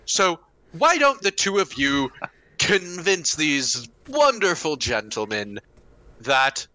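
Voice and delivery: measured, slow in-character suggestion; a knight politely handing off the threat; lightly voiced Roland. Roland addresses companions in character.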